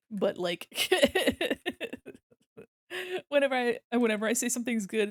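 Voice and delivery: ordinary delivery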